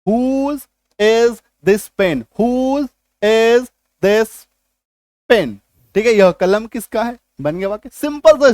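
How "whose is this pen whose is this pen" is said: very slow, stretched words; slow demo. Shown as a demonstration. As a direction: drag it out for students to copy. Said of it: "same to same structure". (बहुत धीरे, खींचकर)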